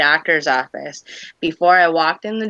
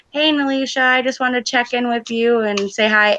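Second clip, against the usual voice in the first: bright greeting; 8 semitones higher than usual. Retold or imitated. Retelling her own cheery message.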